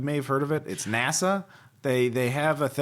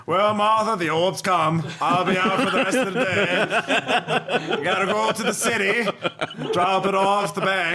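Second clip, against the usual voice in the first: put-on stoic old farmer; 3 semitones higher, slower than usual. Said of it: "stoic old farmer's like".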